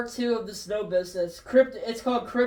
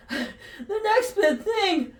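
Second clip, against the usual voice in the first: confused; 7 semitones higher, 4 dB louder than usual. Acted. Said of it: "Marty McFly confused".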